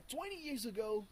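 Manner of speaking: a slip into a British-like accent on twenty years ago. Real, not acted. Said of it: "I switch into some kind of British-like accent".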